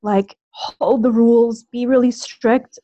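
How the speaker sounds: nervous caller, trembling voice; shaky nervous voice. Real, not acted. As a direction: voice shaking with real nerves. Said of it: "my voice is shaking".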